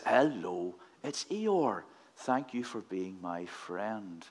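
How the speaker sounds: slow, low, mopey donkey voice; a hint of gloomy Eeyore, slowed right down; sad Eeyore. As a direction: lightly do Eeyore, low and sorry for himself. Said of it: "with his very low, sad voice".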